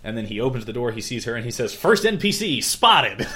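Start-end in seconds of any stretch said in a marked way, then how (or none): 1.8-3.3 slow, loud, high video-game announcer call; gamer announcement. Retold or imitated. Subaru treating mansion like game.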